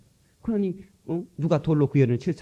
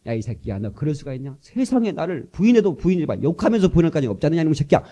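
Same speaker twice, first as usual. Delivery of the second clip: mock scolding; 3 semitones higher, 5 dB louder than usual. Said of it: "하면서 따지는 게 아니고".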